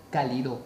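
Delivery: cálido said as ca-li-DO; stress on last syllable. Shown as a demonstration. Teacher showing a wrong stress, cálido as ca-li-DO. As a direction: move the stress in cálido onto final DO. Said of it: "si la mayor fuerza de voz estuviese en do".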